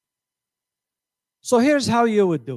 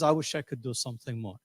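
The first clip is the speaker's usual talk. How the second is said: soft inner thought; 6 semitones lower, 10 dB quieter than usual. Retold or imitated. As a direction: voice drops low and soft, to itself. Quoting our inner thought, softly.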